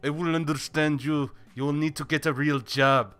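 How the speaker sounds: hammed-up dad laying down the law; mock scolding dad. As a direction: play a loud, lecturing father. Plays a scolding dad to 'son'.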